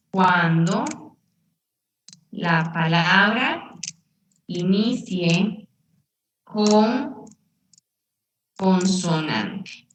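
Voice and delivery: measured classroom dictation with drawn-out words; slow dictation. Shown as a demonstration. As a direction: rule given piece by piece, long pauses. Teacher dictates the rule slowly.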